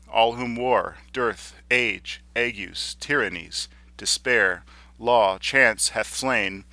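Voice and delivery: slow, weighty declamation, word by word; declaimed poem with heavy separate stresses; emphatic verse recitation. Shown as a demonstration. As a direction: hammer each monosyllable of the list. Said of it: "culminating in a sudden rush of monosyllabic words".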